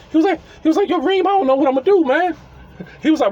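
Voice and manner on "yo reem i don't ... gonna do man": panicked. Retold or imitated. Panicked tenant voiced in story.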